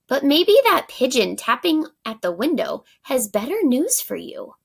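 animated picture-book reading; story narration. A narrator's reading. Teacher reads the bakery scene to pupils, lively narration. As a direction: voice each baker line for the class.

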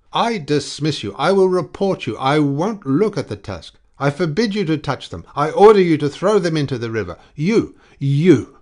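furious orders, losing control; raging. A narrator's reading. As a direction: shout him down in a fury. Enraged boss berating clerk.

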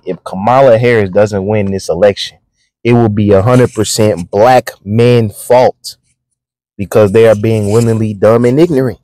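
slow, deliberate reread; slowly. Shown as a demonstration. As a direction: lay every word out slowly so it sinks in. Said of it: "Let me read that again slowly".

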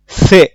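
loud single-word model of "সে"; Japanese word modelled. Shown as a demonstration. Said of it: "vocabulary word modelled".

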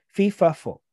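"fee, fa, fo" as three separate syllables; "fee, fa, fo" with a short pause between each; similar-sounding particles. Shown as a demonstration. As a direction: set out "fee, fa, fo" one by one. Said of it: "they sound very similar".

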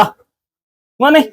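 very slow, stretched, rising call; drawn-out call. Real, not acted. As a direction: draw the call out long to lure him. Calling the dog. (നീട്ടി വലിച്ച് നായയെ വിളിക്കുന്നു)

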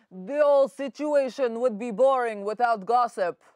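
mock Putin in a heavy Russian accent; a Russian accent, hammed up for laughs. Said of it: "need to work on that Russian accent".

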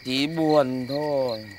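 mopey despair. Acted. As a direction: mumble out a deadpan gloom. Husband sulks over ruin.

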